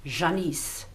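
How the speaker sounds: Janice with a French zh and a long ee; French pronunciation. Shown as a demonstration. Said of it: "In, in French".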